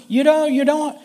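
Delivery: put-on high, spluttering British accent. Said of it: "that's my best British accent".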